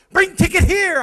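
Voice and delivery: put-on high, shouted Indian accent, curt; rude Indian man. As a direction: snap it like a gruff attendant over the intercom. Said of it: "this little Indian man goes".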